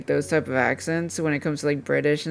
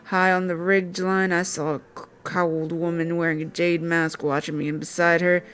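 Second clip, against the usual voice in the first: put-on a light country accent for the game character. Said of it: "giving this dude, like, a country accent".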